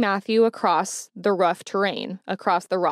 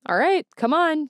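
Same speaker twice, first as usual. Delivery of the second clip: higher-pitched imitation of a director rousing kids; mock wake-up call; 8 semitones higher than usual. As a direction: lightly act out rousing tired campers.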